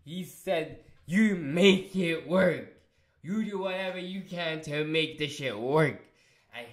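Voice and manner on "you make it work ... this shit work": pissed order. Retold or imitated. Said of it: "He was pissed at him".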